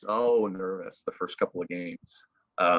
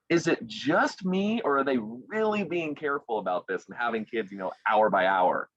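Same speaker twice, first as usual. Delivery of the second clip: wondering aloud; 4 semitones higher than usual. Retold or imitated. Lone finalist wondering about the mock run, high-pitched musing. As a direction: raise the pitch as if puzzling it out. Retelling his own suspicious wondering.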